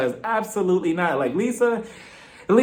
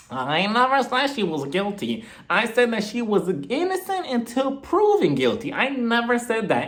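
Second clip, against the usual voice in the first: Meredith; 5 semitones higher than usual. Retold or imitated. Acting out Meredith's drawn-out denial.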